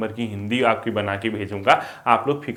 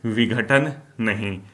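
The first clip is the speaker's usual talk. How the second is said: slow dictation; 2 semitones lower, slower than usual. Shown as a demonstration. Repeats phrase slowly for note-takers.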